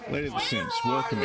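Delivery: squeaky sing-song welcome; high playful greeting. Real, not acted. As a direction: greet them in a high, silly voice. Greeting a viewer by name.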